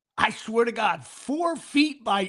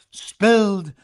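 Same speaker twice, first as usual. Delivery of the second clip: booming announcer read; imitating PA announcer; 6 semitones lower, 5 dB louder, much slower than usual. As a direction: lower and slow, each word drawn out over the stadium. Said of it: "'Cause he would go".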